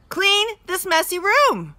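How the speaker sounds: mother repeating, getting upset; repeated, losing patience. Shown as a demonstration. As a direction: say it again, clearly annoyed now. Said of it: "repeated Mother".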